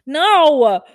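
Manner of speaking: loud, high, drawn-out wail; exasperated shout. Acted. Nurse answering coworker asking if she's okay, exasperated shout. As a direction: yell it out at the end of your rope.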